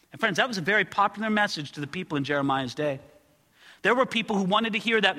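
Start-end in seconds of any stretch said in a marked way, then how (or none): none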